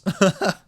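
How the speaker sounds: a brief burst of laughter; short laugh. A narrator's reading. Glad the doors were locked, a short laugh. Reader laughs after story's punch line.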